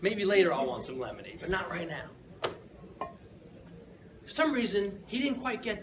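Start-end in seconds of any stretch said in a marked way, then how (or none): 0.0-2.1 gentle no. Retold or imitated. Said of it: "So I tell him".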